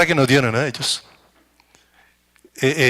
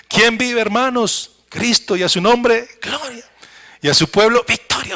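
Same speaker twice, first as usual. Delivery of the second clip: excited call; 5 semitones higher than usual. Acted. Congregation call, faith lifted.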